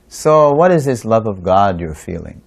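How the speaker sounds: mildly confrontational retold question; imitating a sceptical questioner; challenging. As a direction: put it to them as a challenge. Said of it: "he asked this question in a challenging mood".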